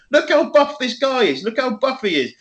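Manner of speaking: high-pitched imitation of gushing; amazed admiration. Man calling his mates to look, retold amazement.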